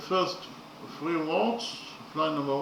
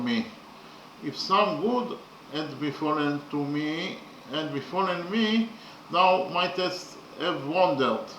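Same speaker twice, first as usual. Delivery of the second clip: poem recitation; slower than usual. Acted. Teacher reciting the translated stanza to students, slow and declaiming. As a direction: recite each line slowly, giving it weight.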